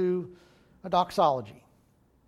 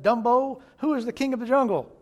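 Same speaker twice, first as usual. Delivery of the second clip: loud, higher roaring lion demand; mighty roar; 5 semitones higher, 4 dB louder, faster than usual. Acted. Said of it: "He let out a mighty roar and said".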